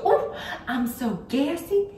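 put-on high, slow old-lady voice breaking into laughter; grandma's voice, laughing. Granddaughter imitating grandma's excuse, high slow and laughing. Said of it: "and she'd go".

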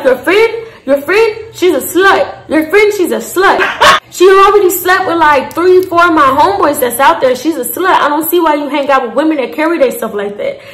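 imitated African accent. Nigel calling her friend a slut, in a mock African accent. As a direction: play him gossiping in an African accent, half laughing. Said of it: "in his African voice".

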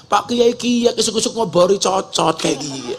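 lightly voiced Pak Entus offering a cigarette in ngapak accent; a hint of broad ngapak Javanese accent. Dalang offering the preacher a smoke, light ngapak accent. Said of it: "pakai bahasa ngapak".

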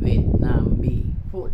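"Vietnamese food" stretched slowly and linked smoothly; slow drawn-out demo. Shown as a demonstration. Teacher stretches "Vietnamese food" for students, slowly linked. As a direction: draw it out, each syllable joined. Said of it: "đọc liền với nhau".

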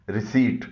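रिसीट with silent P, "ri-seet"; correct pronunciation. Shown as a demonstration. Teacher modelling for learners, रिसीट without the P. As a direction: say रिसीट with no P before T. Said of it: "इसका सही pronunciation है".

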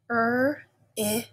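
把"Er, ip"分开发音，一个一个音; 拆开读"Er"和"ip"; segmenting sounds. Shown as a demonstration. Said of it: "Take out the er".

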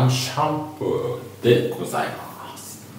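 アンシャンプー said slowly in a mock native English way. Shown as a demonstration. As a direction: drawl アンシャンプー like an English speaker. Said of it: "あの、ネイティブっぽい発音。". (ネイティブっぽい発音で「アンシャンプー」)

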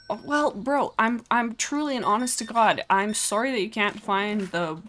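high, insistent mock-sincere sorry; exasperated mock apology. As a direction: plead innocence to an annoyed customer. Protesting to a game customer.

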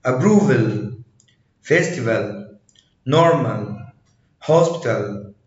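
"approval", "festival" with a very light final A. Shown as a demonstration. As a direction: say normal and hospital with the last A barely voiced. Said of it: "مرة تانية".

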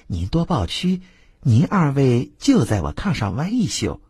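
lightly voiced playful girl; coaxing courtesan.

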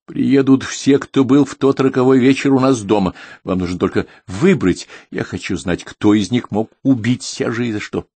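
lightly voiced stern old woman; old lady voice. Old woman insists on the gathering.

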